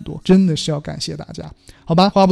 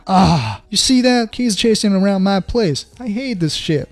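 higher-pitched fed-up outburst, hammed up; acted exasperation; 3 semitones higher than usual. Fed up with kids chasing around the house, acted exasperation. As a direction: play someone irritated to bursting. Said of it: "让你很烦，整得你都快炸了".

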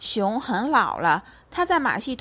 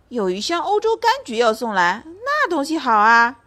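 loud; 4 semitones higher, 5 dB louder than usual. Acted. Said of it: "老熊大声说".

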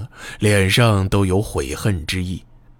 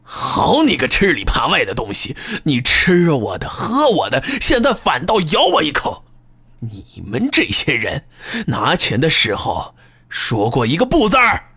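high, shrill ranting; hysterical cursing; 4 semitones higher than usual. Acted. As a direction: rage at the traitor. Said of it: "歇斯底里地骂道".

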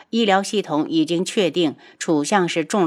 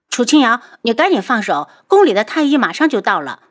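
louder, higher, fast scolding; sharp demand; 4 semitones higher, 5 dB louder, faster than usual. Acted. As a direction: order her off, urgently. 楚玉儿阻止姐姐. (急切地高声呵斥)

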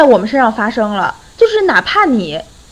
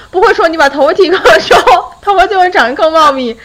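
patient explaining; 5 semitones higher, 4 dB louder than usual. Retold or imitated. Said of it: "好心好气地跟我妈讲".

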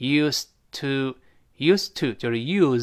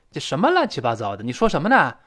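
baffled; 3 dB louder, faster than usual. Acted. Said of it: "这第二个人更听不懂了".

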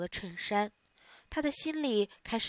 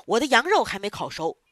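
stern boss; 5 dB louder than usual. Acted. Boss angry about the fire.

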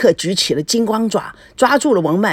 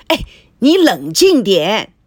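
slow, louder, firm; husband restraining his wife, slow and firm; calming firmly; 5 dB louder, slower than usual. Acted. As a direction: hold her back with slow firm words. Holding back the angry wife.

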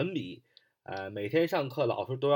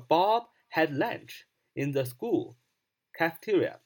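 slow, careful English model sentence; 3 semitones higher than usual. Shown as a demonstration. Teacher reads the English sentence slowly for learners. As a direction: spell each word out slowly for students. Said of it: "那你要这样说".

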